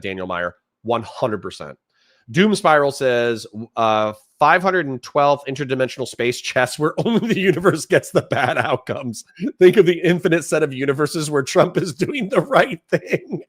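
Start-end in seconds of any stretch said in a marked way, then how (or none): 4.4-13.4 reading the comment out through laughter; chuckling through the words; can't keep a straight face reading chat; laughing while reading. Real, not acted.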